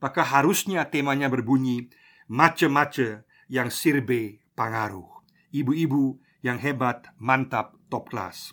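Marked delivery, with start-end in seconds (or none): 2.3-5.2 slow, lower Papuan dialect phrasing; a hint of Papuan Malay, measured and slow; Papuan Malay accent. Shown as a demonstration. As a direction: say it unhurriedly in a light Papuan accent. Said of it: "Kalau kita pakai logat Papua".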